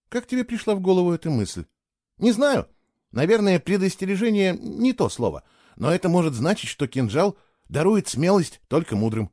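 lightly voiced young woman, musing; a hint of a girl's voice, thinking aloud. Keyla voiced by narrator.

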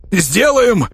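happy to oblige; cheerful agreement. Acted. The Miller cheerfully agrees to take the princess away, upbeat. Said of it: "весело подмигнул Мельник".

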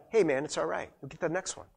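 quiet, easy reassurance; no judgment. Acted. Good teammate to a player who struck out, soft reassurance. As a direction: let a teammate off gently, voice dropping away. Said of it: "No judgment".

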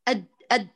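«أد» with a closed, cut-off د; «أد» said short, the sound stopping at once; clipped ad sound. Shown as a demonstration. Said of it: "شوفي لما قرأت المخرج أد،".

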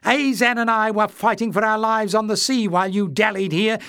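furious retort. Acted. Clef hurling blame at Warren, furious and high. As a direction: retort in a fury. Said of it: "Clef retorted furiously".

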